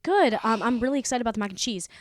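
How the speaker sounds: fake cheerful. Fake cheerful answer to mom.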